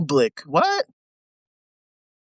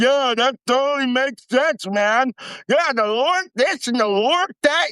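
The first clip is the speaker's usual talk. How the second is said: higher, fake eager agreement; mock agreement; 5 semitones higher than usual. Sarcastically imitating how he's expected to agree, higher. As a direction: play the gullible yes-man. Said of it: "act like I'm supposed to be like".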